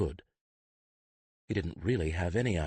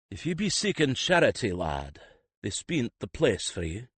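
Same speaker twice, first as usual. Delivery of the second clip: a rustic priest, tired, gently turning him away; weary but not unkind; 5 semitones higher than usual. Acted. Priest at the gate turning the boy away wearily. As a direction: sigh it out, kindly enough. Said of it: "he said wearily, but not unkindly".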